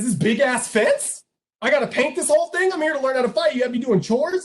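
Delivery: mock outraged disbelief; incredulous protest. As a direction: protest like a put-upon student. Student protests at huge chore.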